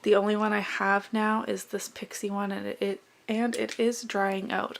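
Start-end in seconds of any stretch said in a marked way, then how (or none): 2.5-4.8 tripping over the words; stumbling, repeating the start; stuttering. Real, not acted. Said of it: "I'm stuttering".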